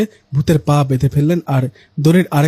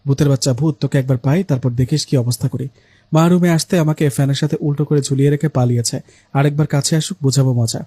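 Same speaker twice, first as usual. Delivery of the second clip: angry muttering. Acted. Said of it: "রাগে মনে মনে বলতে লাগলো".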